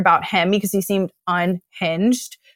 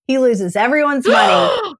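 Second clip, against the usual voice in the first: raised, half-shouted punchline; emphatic shout; 4 semitones higher than usual. Real, not acted. Climax of the story.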